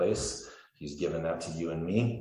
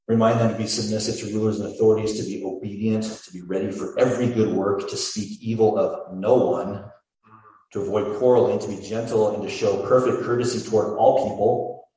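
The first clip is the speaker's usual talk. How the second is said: loud forceful reading; 4 semitones higher, 8 dB louder than usual. Acted.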